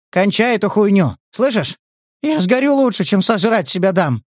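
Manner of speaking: high, desperate near-shout; panicked outburst. Acted. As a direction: scream it out in panic. Panicked boy threatening self-immolation. (паническая истерика)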